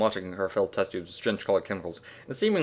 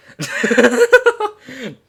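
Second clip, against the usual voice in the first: high laugh; 13 semitones higher, 10 dB louder than usual. Real, not acted.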